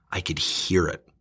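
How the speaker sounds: breathy whisper, no voice. Real, not acted. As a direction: hush it as if listening to the silence. Describing the silence on phone.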